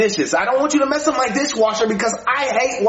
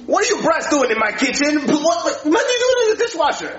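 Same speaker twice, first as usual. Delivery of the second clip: higher, rising outrage, faster at the end; scolding; 5 semitones higher than usual. Acted. Cook scolding kids in his kitchen, rising outrage. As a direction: catch the brats red-handed. Angry parent catching kids.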